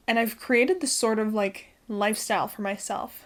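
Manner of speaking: breathless after running upstairs; out of breath. Real, not acted. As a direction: talk while catching your breath. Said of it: "Sorry, I'm out of breath".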